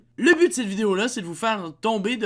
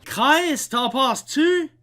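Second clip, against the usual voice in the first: «Chris, t'en penses-tu?» slowed, louder, mock Quebec vowels; mock Quebec accent; 4 semitones higher, 5 dB louder, much slower than usual. Host mocking the French imitation of Quebec accent. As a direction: parody her fake Quebec accent. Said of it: "Pas québécois".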